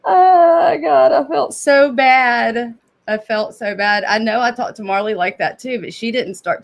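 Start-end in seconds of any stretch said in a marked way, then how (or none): 0.0-2.7 laughing cry. Real, not acted. Laughing at her own embarrassment.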